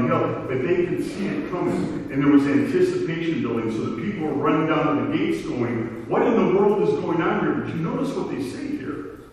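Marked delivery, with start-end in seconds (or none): 6.1-7.5 higher and louder, an eager crowd asking; excited crowd call. Retold or imitated. Preacher voicing crowd running to gates, excited higher call. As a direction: call it out like people rushing to the gates.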